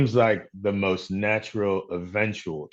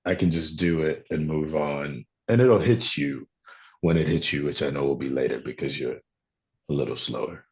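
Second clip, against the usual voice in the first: understated arrogance, dropping lower toward the end; offhand arrogance; 5 semitones lower than usual. Shown as a demonstration. Comic actor showing a delayed-insult delivery, offhand arrogance. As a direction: toss off the insult without waiting for it to land. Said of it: "there's a delivery of, like, arrogance".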